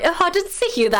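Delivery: high, breezy imitation of an Aussie guy; mock Aussie accent. Quoting the Aussie guy from the reaction video, mock Aussie accent. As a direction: tease his Aussie accent lightly. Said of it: "like, Aussie accent".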